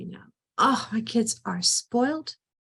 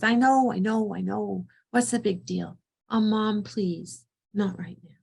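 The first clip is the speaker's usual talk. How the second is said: put-on dismissive teen. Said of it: "she's dismissive".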